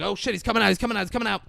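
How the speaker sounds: high-pitched, repeated alert; mock alarm. Police see Stu leaving the booth, in high mock alarm. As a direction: raise the pitch, imitating flustered onlookers.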